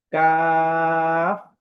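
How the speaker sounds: কাফ with a very thin, long aa; thin-sounding letter. Shown as a demonstration. Teacher shows the very thin sound, drawn-out thin কাফ. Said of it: "আওয়াজটা খুব পাতলা".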